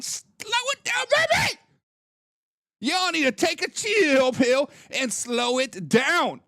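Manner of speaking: put-on high teasing "baby", then slow; calm them down, playfully. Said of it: "I'm like".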